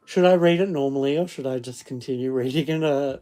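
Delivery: lightly put-on Scottish accent, quick at first; fake Scottish accent. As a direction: ask it in a mock Scottish lilt. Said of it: "fake Scottish accent".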